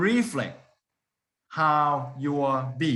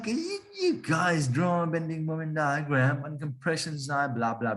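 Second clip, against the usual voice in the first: mocking advisor. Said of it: "unfairly mocked by my advisor".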